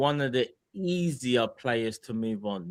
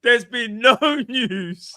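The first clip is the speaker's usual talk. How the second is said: put-on higher, slow accented "There's been no news"; mock Spanish accent; 8 semitones higher, 5 dB louder, much slower than usual. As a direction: say it like a Spanish transfer reporter. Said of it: "You're still Spanish".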